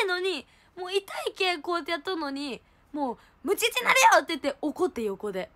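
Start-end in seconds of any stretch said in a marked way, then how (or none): 3.4-4.2 high, raised scolding; half-angry warning. Retold or imitated. Retelling how her friend half-angrily warned her. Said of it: "もうちょっと半切れ。".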